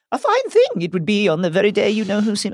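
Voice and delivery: lightly attempted Scottish accent. Podcast host reading McGonagall's line, attempted Scottish accent. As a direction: try McGonagall's Scottish, half-heartedly. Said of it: "I can't do the Scottish accent".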